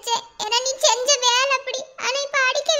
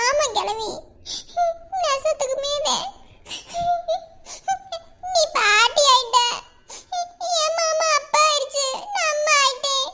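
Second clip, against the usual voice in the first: crying through good news; tearful. Acted. Young wife tells grandmother she is pregnant, tearful. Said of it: "விஷயத்த சொல்லிவிட்டு அழுகுற".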